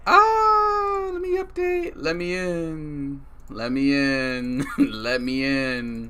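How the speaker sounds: high, drawn-out shout to be let in; excited yelling. Real, not acted. Streamer begging to get into the game, excited yelling. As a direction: yell it out long and loud, with a laugh breaking in.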